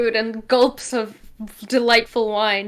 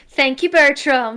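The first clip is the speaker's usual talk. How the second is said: slow mimicry in a Gaelic accent; copying Leon's Gaelic cadence; 3 dB louder, slower than usual. Guest imitating Leon thanking Bertram, in a Gaelic accent. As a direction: copy the drawn-out Gaelic lilt, amused. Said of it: "exact cadence and intonation".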